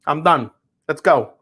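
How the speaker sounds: lightly put-on Italian-American mobster accent; Sopranos-style Italian-American. Mobster ordering Audriana to go taste bourbon, mock Italian-American accent. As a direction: hurry her along like a Sopranos wise guy. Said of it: "like Sopranos".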